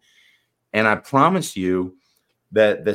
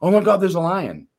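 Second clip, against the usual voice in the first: much higher, louder panicked cry; mock alarm; 9 semitones higher, 5 dB louder than usual. Coach acting the subconscious mind's panic at a lion. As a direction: squeal it like the lion is right there. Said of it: "what is it gonna do?".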